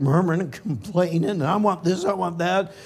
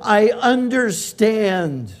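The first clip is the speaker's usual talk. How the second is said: God comforting; 4 semitones higher, slower than usual. Acted. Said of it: "and he says".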